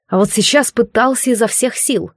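ordinary delivery, nothing marked

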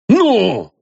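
sudden loud high bark; terrifying demand. A narrator's reading. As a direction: snap it out with menace. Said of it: "страшным голосом потребовал".

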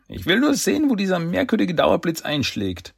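hoher Ruf, ohne viel Lautstärke; rufend. A narrator's reading. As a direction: mit hoher Stimme von oben herunterrufen. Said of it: "rief Don von halber Höhe". (angedeutetes Rufen in hoher Lage)

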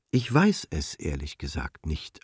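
soft, hesitant and a little awkward; embarrassed. A narrator's reading. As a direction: say it shyly, unsure of yourself. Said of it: "antwortete diese etwas verlegen".

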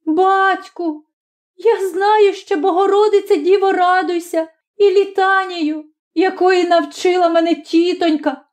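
put-on high child's voice, anxious and eager; a child hoping to please his father; frightened boy. Boy's voice in story.

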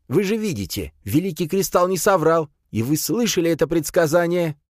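high-pitched, insistent priest voice; exclaiming priest. A narrator's reading. Priest cites the prophecy to warriors, exclaiming high. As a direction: proclaim it high to convince doubters. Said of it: "вскрикнул жрец".

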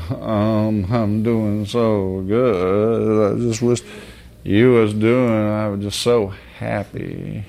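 slow, drawn-out fake-happy voice; mock the fake cheer of someone claiming all is well; fake cheerful tone. Preacher mocking a man's fake cheer, slow and sing-song. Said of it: "they sound like".

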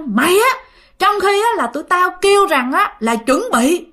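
indignant tirade, high at the start; scolding ghosts. Acted. Ghosts pin the father down and threaten him, angry scolding. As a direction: berate him with mildly heated challenges. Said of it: "nó vừa đè nó vừa chửi".

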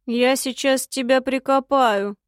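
slow wheeze from under her; wheezing. Acted. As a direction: wheeze it out, winded. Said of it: "прохрипел из-под меня недоубитый тёмный".

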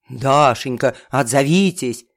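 ниже, громче, жалобно; ныть в трубку; нытьё Феликса. A narrator's reading. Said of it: "ныл Феликс Жанович". (Феликс ноет по телефону, ниже)

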